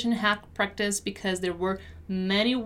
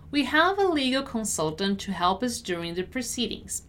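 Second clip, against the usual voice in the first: measured, clearly enunciated read; deliberate teacher's model. Shown as a demonstration. Teacher models sentence slowly first.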